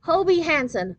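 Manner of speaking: high, loud shriek of a name; girl shrieking from the car. A narrator's reading. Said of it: "a voice shrieked from the car".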